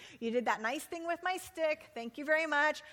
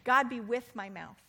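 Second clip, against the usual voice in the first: spoken prayer. Shown as a demonstration. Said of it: "Let's stop right now and just pray that".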